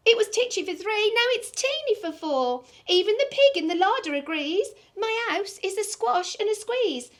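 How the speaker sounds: put-on high, fretful little old lady. Old lady crying to the wise old man for help. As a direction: wail it like a flustered old lady.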